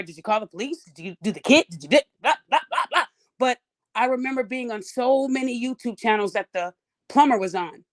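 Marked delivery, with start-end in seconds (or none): 0.0-3.0 mocking commenters. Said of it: "you guys are asking her".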